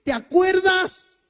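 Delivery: high, slow questioning voice; God asking if he remembers; gentle divine reminder. Retold or imitated. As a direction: draw the memory out of him. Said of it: "me muestra ese momento y me dice".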